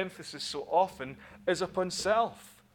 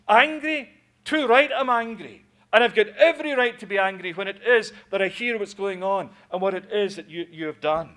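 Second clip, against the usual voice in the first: high, loud furious retort; furious outburst; 3 semitones higher, 8 dB louder than usual. Acted. Elder brother to his father, furious shout. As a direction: shout back in full rage. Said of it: "pent-up rage".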